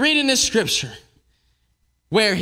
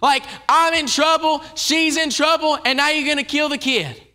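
higher, pleading and exasperated; distressed Elijah; 5 semitones higher than usual. Retold or imitated. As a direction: voice a desperate prophet crying to God. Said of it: "Elijah's distressed".

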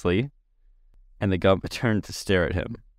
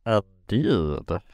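indifferent. A narrator's reading. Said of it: "murmured the Gump indifferently".

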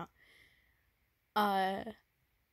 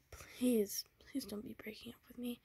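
begging whisper, softer; pleading whisper; 3 semitones higher, 3 dB quieter than usual. Acted. Boyfriend begs girlfriend not to break up, in a frightened whisper. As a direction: plead quietly, scared she's leaving.

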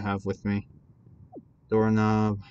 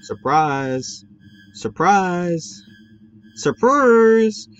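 sarcastic; 7 semitones higher, 4 dB louder, much slower than usual. Real, not acted. Mocking the jump scare.

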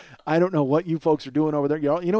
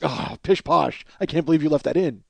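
be theatrically scandalized without raising the voice; mock outrage. Pastry company folks objecting to the noise, mock outraged. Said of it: "who's outraged by that".

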